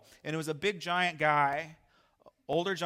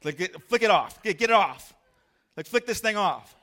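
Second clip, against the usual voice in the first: higher, loud panicky urging; frantic; 6 semitones higher, 10 dB louder than usual. Retold or imitated. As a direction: hurry to get it off. Trying to flick centipede off.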